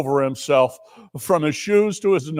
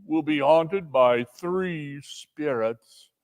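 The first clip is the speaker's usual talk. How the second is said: ominous prophecy; much slower than usual. Acted. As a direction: intone the doom. Ghost's prophecy.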